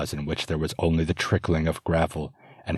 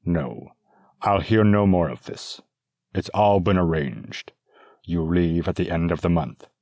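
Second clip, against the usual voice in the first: stern father; 3 dB louder than usual. Acted. Father ends discussion sternly.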